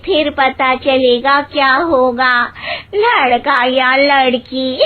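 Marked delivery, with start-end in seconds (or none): none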